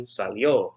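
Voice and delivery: Salió with the weight on the final ó; stress on final O. Shown as a demonstration. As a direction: land on the last vowel of Salió. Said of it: "with an accent on the O".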